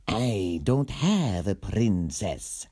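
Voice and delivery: slow, mild villain voice; a gentle baddie denying it; lightly voiced villain, puzzled; villain's reply. Villain answers hero.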